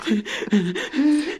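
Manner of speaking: high, gloating little laugh; miser's gleeful titter; greedy chuckle. Acted. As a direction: chuckle with pleasure over gold. Miser gloats over his gold.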